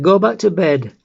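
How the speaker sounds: loud, high-pitched exasperated call; shouted order. Acted. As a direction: shout back through the door to send her off. Son answers mother shouting outside door.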